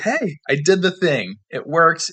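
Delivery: high, loud excited cheer; gleeful "I did it". Retold or imitated. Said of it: "I was like".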